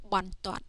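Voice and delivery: finished reading of "Bon Toan"; blended word demo. Shown as a demonstration. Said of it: "just like this".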